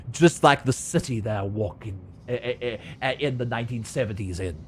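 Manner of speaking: a lightly voiced gritty noir narrator. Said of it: "Is, is that your noir voice?".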